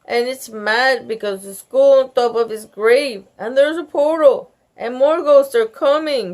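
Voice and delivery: high, loud breathless rush; child tattling in a frightened rush; gasping. A narrator's reading. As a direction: blurt it out in a panic. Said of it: "she gasped".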